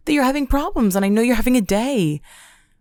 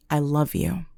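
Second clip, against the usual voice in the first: softer, barely there, a dying gasp; weak whisper of love; 5 semitones lower, 5 dB quieter than usual. Pretend. Beaten on the floor, whispering love to the attacker. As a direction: breathe it out with the last strength. Beaten lover's last words.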